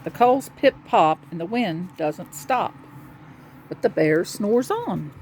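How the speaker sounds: rhythmic picture-book reading; children's story narration. A narrator's reading. Reading a cozy bear story to children, storytelling. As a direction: read the rhyme out to a small child.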